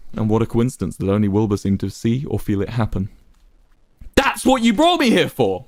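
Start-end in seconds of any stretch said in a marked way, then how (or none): 4.2-5.6 shaky. A narrator's reading. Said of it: "Wilbur replied shakily".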